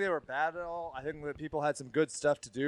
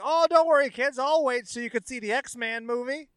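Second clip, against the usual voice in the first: cool dad voice; 9 semitones higher, 4 dB louder than usual. Retold or imitated. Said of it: "my cool dad who was like".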